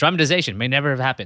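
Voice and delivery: loud, rapid, rattled-off, tossed-off delivery. Quoting a narrator's closing disclaimer from a reenactment, said very quickly. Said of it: "the narrator says very quickly".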